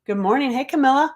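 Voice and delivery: high, loud, bubbly greeting; gushing hello from an eager fan. Retold or imitated. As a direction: squeal a fan's excited hello. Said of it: "she was telling me".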